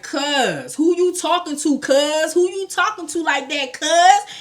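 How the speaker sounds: imitating a confrontational Cali accent, pitched high; South Central Cali. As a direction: challenge him like a South Central guy. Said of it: "the Cali came right out of his throat".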